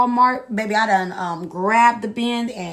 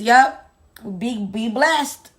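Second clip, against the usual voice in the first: slow, sweetly dismissive be blessed; faux-gracious send-off; mock-pious goodbye; 2 semitones higher, 5 dB louder, much slower than usual. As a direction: bless him off the call. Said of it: "ironic blessing farewell".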